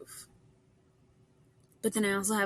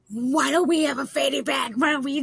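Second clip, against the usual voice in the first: mimicking distraught staff; 5 semitones higher, 8 dB louder than usual. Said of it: "they were so, like, distraught".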